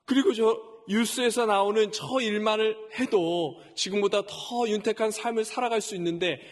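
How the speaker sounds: half-acted grumbling prayer, exasperated; retold complaint to God. Pastor grumbling to God about his pay, mildly exasperated. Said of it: "하고 막 불평을 쏟아냈어요".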